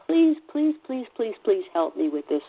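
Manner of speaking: half-sobbed prayer, begging please; reliving a tearful plea to God, pitch climbing on each please; retold sobbing plea. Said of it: "sobbing and saying".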